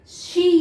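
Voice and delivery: शी with a drawn-out "ee"; long E demo. Shown as a demonstration. Teacher repeating examples for pupils, शी with long E. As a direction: hold the vowel in शी. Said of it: "ये long ई".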